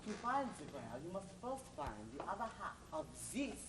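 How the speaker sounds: hammed-up French stranger; French accent. Stranger switches to French accent to please the hero. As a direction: slide into a jokey French accent, "Ooh la la". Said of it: "This is not difficult to change".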